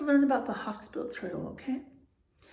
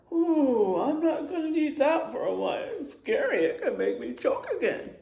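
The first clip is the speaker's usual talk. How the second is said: lightly voiced, higher worried kid; mild scared child; 4 semitones higher than usual. Teacher imitating a worried child, mild fear. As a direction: act out being put off food. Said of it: "It makes you not wanna".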